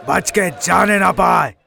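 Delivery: a goon yells to the gang not to let him escape; shouting order. Acted. Goon shouting at his gang to catch Veer. Goons attack Veer in market.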